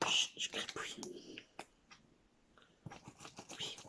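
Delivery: hushed cat reply; whisper. Pretend. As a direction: whisper it like a secret. Réponse chuchotée du chat. (chuchoté, le chat répond)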